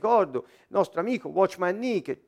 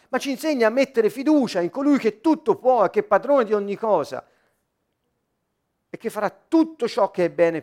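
raised, emphatic sermon voice; forceful preacher building a list; preaching exhortation; 4 semitones higher, 5 dB louder than usual. Acted. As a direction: exhort the congregation in repeated, driving phrases. Exhorts the congregation.

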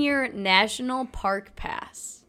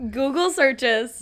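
Google searches drawn out slowly, pitched higher; slow repeat; 4 semitones higher, 4 dB louder, much slower than usual. Real, not acted. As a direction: repeat it slowly and emphatically on request. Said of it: "Say, say that one more time".

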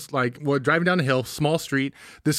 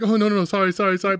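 mock polite flustered sorry, a bit higher; polite apology; 4 semitones higher, faster than usual. Mocking the polite dad who blocks traffic, mock apologetic. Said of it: "the polite".

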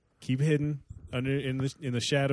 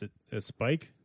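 lightly voiced, hesitant Italian, soft and low; a hint of a timid Italian man; nervous Italian accent; 7 semitones lower, 7 dB quieter, faster than usual. Co-host hesitantly guessing the TV channel, nervous mock Italian accent. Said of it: "I'm a nervous Italian man".

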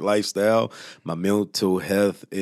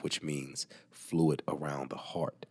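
soft, slow, hushed; slow whisper; 2 semitones lower, 7 dB quieter, slower than usual. Real, not acted. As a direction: whisper it gravely and slowly. Grim medical detail.

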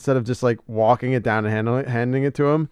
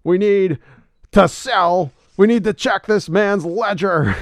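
much higher, loud Robin impression; 9 semitones higher, 5 dB louder than usual. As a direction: squeak it out like Robin. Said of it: "I can't do my Robin".

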